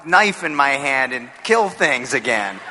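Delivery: slow, lightly played frustrated demand; a hint of an impatient tough guy; frustrated actor. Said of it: "you know, say to us".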